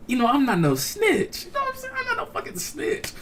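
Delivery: squirm out of it in a squeaky voice; mock reluctant protest. Acting out reluctance to snitch.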